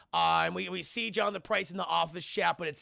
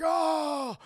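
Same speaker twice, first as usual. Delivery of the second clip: hammy villain; 9 semitones higher, 3 dB louder than usual. Retold or imitated. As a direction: proclaim it like a cartoon overlord. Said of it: "And he's like".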